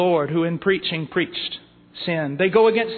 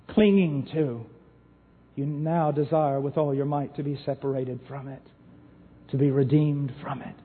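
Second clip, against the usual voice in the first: hushed earnest preaching; 5 semitones lower, 5 dB quieter than usual. Acted. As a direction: lower and softer, pressing each question. Quiet intense preaching section.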